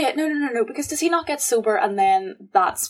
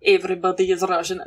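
light, hammy Russian accent. Shown as a demonstration. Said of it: "Can you do Russian?".

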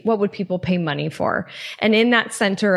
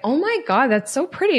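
higher, gushing over a pretty stone; delighted; 5 semitones higher than usual. Retold or imitated. Admiring a stone on the beach, delighted. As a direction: gush like you found treasure.

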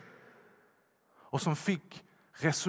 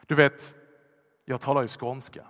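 ordinary delivery

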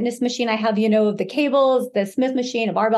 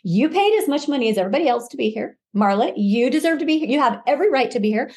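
self pep talk. Retold or imitated. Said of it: "how I talked to myself".

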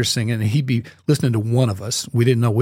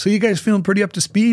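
imitating the director; 7 semitones higher, faster than usual. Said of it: "and he goes".

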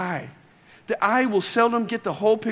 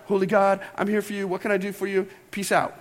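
lightly hammed-up reverence; mock reverent. Shown as a demonstration. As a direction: put on a slightly solemn tone that doesn't quite land. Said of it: "a little more reverent".

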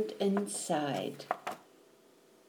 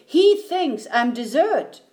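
higher, slightly raised panicky voice; alarmed child; 5 semitones higher, 4 dB louder than usual. Acted. Eddie tells Mom of the danger, alarmed. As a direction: blurt it out in alarm.

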